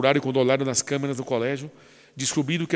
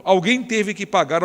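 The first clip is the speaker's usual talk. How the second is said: higher, louder, slower; preached peak; 7 semitones higher, 5 dB louder, slower than usual. Acted. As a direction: drive home who paid. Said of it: "preaching peak".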